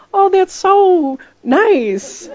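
hammed-up fake delight, high and very slow with a laugh; fake gratitude. Wife pretends to love husband's bad birthday gift, hammed-up fake delight. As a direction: gush over an awful gift you secretly hate. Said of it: "you'd have to go".

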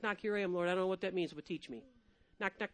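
ordinary talk

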